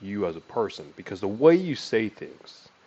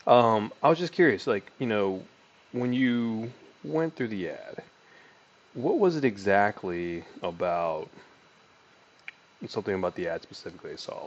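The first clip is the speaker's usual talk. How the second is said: sales call demo. Shown as a demonstration. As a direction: ask it like a curious caller. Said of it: "You can even ask it exactly like that".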